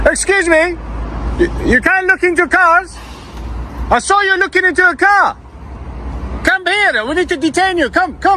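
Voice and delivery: high-pitched mock copper voice; mock police officer. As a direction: parody the officer detaining someone. Mocks officers by playing one.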